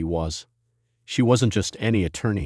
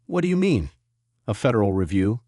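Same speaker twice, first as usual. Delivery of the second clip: stammering. Acted. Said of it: "Hayes stammered".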